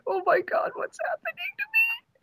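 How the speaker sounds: very high-pitched retold panic; freaking out. Cosplayer retelling the wet warmth on her ear, freaking out. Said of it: "I start freaking out".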